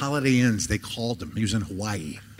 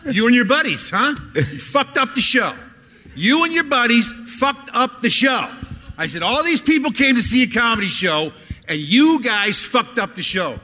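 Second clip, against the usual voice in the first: higher, firm scolding of a heckler; 6 semitones higher than usual. Retold or imitated. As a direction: lay into him for wrecking the show. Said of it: "I go".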